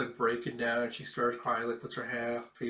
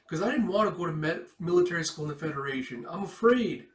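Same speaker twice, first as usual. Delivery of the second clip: put-on fast, high, louder frightened kid; frightened child; 5 semitones higher, 6 dB louder, faster than usual. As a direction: blurt it out like a scared child admitting fear. Micah confessing fear of school.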